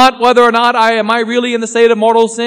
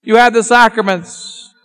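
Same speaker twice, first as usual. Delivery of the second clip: jeering damned souls; 3 semitones higher than usual. Acted. Preacher voicing the damned jeering at Catholics, mocking. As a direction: jeer at the listener as a lost soul. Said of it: "They shall mock you and say".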